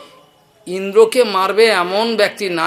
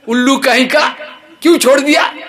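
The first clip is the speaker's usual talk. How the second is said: high, loud Hindi scolding; scolding yell; 8 semitones higher, 6 dB louder than usual. Retold or imitated. Boss furious at servant for letting the thief go, yelling. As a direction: bawl out the servant as an idiot. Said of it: "গালাগাল দিচ্ছে চোকরকে".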